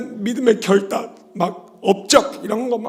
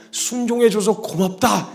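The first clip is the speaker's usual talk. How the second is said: slow, tender father's thanks; 4 semitones higher, slower than usual. Retold or imitated. The father thanks the second son, slow and tender. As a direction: draw the thanks out gently. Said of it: "이렇게 얘기해 준".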